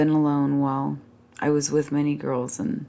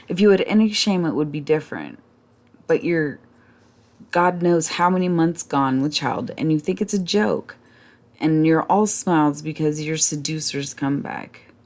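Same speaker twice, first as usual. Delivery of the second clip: tearful reproach. Acted. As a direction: rail at them, close to tears. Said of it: "she began to cry".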